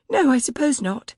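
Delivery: a flustered servant's high voice; anxious maid. A narrator's reading. Maid Bridget's lines.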